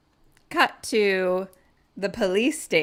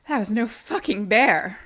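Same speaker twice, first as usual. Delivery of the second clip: Rachel Green way; 2 semitones higher, 4 dB louder than usual. Retold or imitated. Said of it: "in the most Rachel beautiful way possible".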